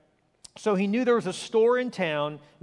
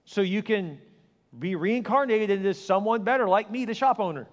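smug dismissal; 3 semitones higher than usual. Retold or imitated. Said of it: "You just say".

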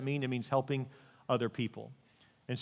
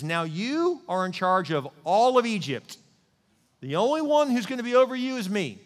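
proclaiming king; 6 semitones higher, 6 dB louder than usual. Retold or imitated. King puts Joseph in charge of Egypt, proclaiming. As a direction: announce it like a king to his court.

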